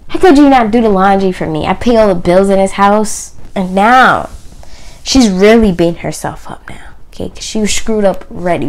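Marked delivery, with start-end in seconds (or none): 0.1-3.4 upset husband. Retold or imitated. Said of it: "He's like".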